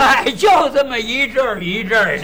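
put-on loud, half-crying old man's complaint; hammed-up deaf man blaring it out. Deaf old man loudly explaining his hearing comes and goes. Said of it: "学学聋子打岔".

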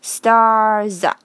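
"stars" ending on a buzzing z; slow demo of "stars" as star-za. Shown as a demonstration. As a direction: stretch "stars" and voice the final s. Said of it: "这里的S是发Z的音".

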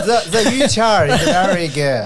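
slow, drawn-out mock Trump English; Trump impression. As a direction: play Trump praising the food slowly. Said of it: "你问特朗普".

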